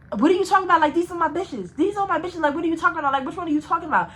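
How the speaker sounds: put-on a touch of an indignant girl. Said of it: "Two Buns was like".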